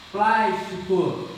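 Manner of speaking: "Plástico" devagar, batendo no "Plás"; slow syllable stress. Shown as a demonstration. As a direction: alongue "Plástico" com ênfase na primeira sílaba. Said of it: "antepenúltima sílaba é tônica". ("Plástico" lento e enfático na antepenúltima)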